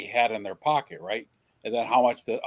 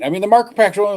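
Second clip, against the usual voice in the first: ordinary delivery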